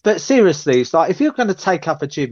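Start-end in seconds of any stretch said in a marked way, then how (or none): 0.0-0.8 mock serious. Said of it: "why you giving it but seriously?".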